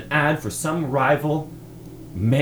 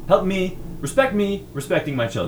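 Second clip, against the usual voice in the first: mock pleading; 7 semitones higher than usual. Pleading about his daughters.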